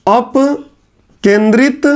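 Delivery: अपकेंद्रित spelled out slowly, syllable by syllable; teacher dictating अपकेंद्रित very slowly; slow dictation. Shown as a demonstration. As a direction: drag out अपकेंद्रित for the class to write. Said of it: "लो, आपकी ही बात लिख दिया".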